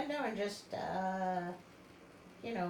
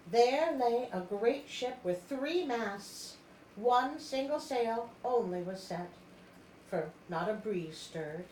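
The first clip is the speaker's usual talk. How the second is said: story narration. A narrator's reading. Reads story narration aloud.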